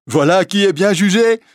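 high, loud mocking imitation; mock the hunchback's voice; imitating the hunchback. A narrator's reading. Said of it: "en imitant la voix du bossu". (un écolier imite le bossu pour se moquer, très haut)

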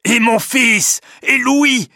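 high, loud, urgent call; anxious father's cry. A narrator's reading. Jean Cornbutte asks after his son Louis, loud cry. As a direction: cry out for your missing son. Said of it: "crie Jean Cornbutte".

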